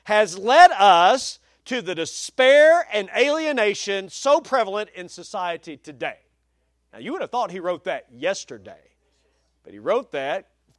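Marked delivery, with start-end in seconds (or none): 0.1-6.2 deliberate, punchy pulpit reading; emphatic quote reading. Real, not acted. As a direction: read it out with weight on key words.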